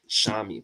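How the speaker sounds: the S of Shami said as sh, SHAH-mee; Shami with an sh sound. Shown as a demonstration. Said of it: "their S has a S H sound".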